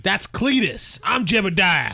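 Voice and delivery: high, loud hick correction; indignant redneck. Pretend. Redneck twin corrects the sheriff, high indignant hick voice. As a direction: protest the mix-up in a loud mock redneck voice.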